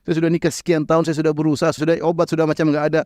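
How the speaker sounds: a touch of weeping in the call to God; mild imitated sob of a childless man; tearful plea. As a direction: lament it, half crying. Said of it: "Nangis sampai dia mengeluh".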